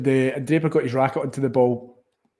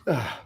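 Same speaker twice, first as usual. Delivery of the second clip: sneezing; 3 semitones lower, 6 dB quieter than usual. Real, not acted. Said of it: "Gonna sneeze again".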